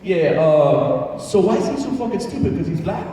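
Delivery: a hint of a burly fighter bragging; tough guy from the bar. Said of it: "he goes".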